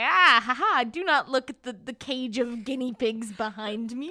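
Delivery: mock sinister villain laugh into a slow line; villain Circe. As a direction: play the sly sorceress hiding something. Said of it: "And Circe's like".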